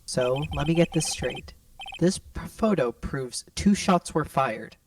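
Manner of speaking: muffled, like through a paper tube; talking through a tube. Real, not acted. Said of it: "Sounds like you're talking through a tube".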